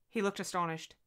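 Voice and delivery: ordinary delivery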